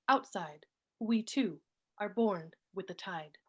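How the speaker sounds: measured poem recital with pauses between phrases; poetry reading. Acted. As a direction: read each line deliberately, letting phrases fall. Reads own poem aloud.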